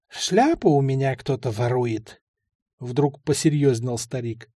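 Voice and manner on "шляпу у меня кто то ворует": lightly voiced old man, now serious. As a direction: confide the problem like the old man.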